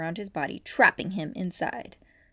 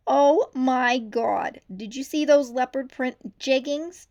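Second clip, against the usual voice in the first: higher, slowed gush; gushing shrew; 5 semitones higher, 8 dB louder, slower than usual. A narrator's reading. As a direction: squeal over the jeggings. Fashionable shrew gushing to friends.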